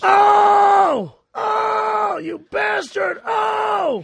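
loud, high pained yelps; hammed-up cries of pain; crying out. Rudolph cries out in skit.

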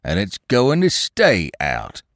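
slow, sullen and stubborn; morose Sugg. A narrator's reading. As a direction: dig in your heels, gloomily. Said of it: "said Inspector Sugg morosely".

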